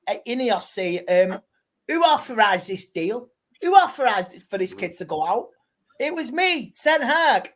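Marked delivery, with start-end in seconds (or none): 1.9-7.5 lightly voiced Dutch manager, louder; a hint of a pompous manager owning up; Ten Hag voice. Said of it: "do your Ten Hag impression".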